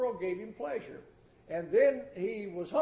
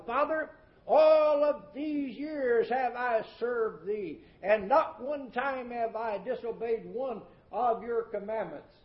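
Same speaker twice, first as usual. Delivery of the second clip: mild mock indignation at his father; resentful complaint; 3 semitones higher than usual. Older son protesting to his father, aggrieved. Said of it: "He was angry and would not go in".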